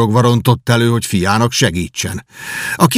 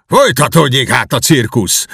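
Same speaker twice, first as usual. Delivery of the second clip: roaring; 3 semitones higher, 3 dB louder than usual. Acted. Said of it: "ordította Kenti".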